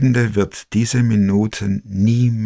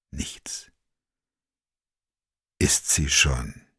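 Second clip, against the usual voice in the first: barely audible, voiceless; whisper; 7 semitones lower, 7 dB quieter, much slower than usual. A narrator's reading. Narrator waiting at her door, near-silent whisper. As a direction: let it die away.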